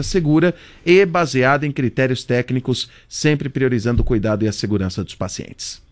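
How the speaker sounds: measured radio reading of an official note; formal broadcast read; news read. Acted. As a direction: read the statement out like a news anchor. Reads the hospital's official note.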